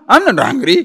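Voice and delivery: a touch of irritated insistence; mild angry denial. Retold or imitated. Angry man insisting to the questioner, mildly defensive. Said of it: "The person is so angry, so upset".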